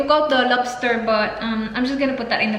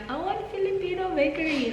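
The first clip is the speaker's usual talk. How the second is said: laughing; 7 semitones higher, 6 dB quieter than usual. Retold or imitated. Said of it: "I told him last night".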